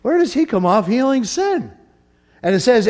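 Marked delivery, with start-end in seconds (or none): 0.0-1.7 suspicious scribes. Retold or imitated. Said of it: "all the scribes are like".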